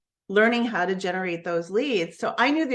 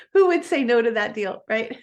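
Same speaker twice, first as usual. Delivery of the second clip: laughing; 3 semitones higher, 3 dB louder than usual. Real, not acted. Laughs at the obvious deal.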